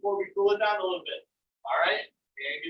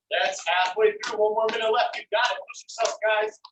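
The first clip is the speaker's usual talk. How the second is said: barking gym coach. Real, not acted. Instructor urging class through last minute.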